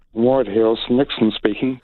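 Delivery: lightly put-on American accent; a hint of American accent. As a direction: answer the phone as an American official. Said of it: "in my best American voice".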